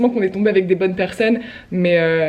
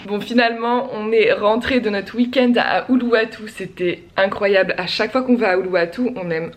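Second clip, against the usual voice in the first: talking while chewing gum. Real, not acted. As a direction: gum in the mouth as she talks. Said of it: "j'ai un chewing-gum dans la bouche".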